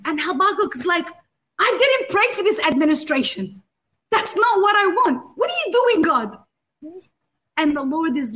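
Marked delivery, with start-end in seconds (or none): 1.6-6.4 dismayed protest. Retold or imitated. Habakkuk objecting to the Babylonians, rising alarm. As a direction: pitch climbing in alarmed disbelief.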